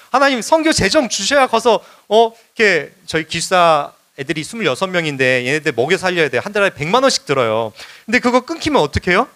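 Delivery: pressing, bargaining plea, starting high; mock threatening plea. Missionary bargaining with God for funds, mock threatening. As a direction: argue your case urgently, half in jest. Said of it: "막 협박해요".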